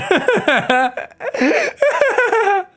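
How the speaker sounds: loud, helpless high laugh; real laughter at a joke; high burst of laughter. Real, not acted. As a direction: crack up at the chat. Twitch chat's funny.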